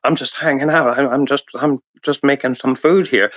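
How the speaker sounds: lightly put-on odd clown voice; a hint of a weird accent, playing harmless; weird disguised voice. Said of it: "So I'm talking like that".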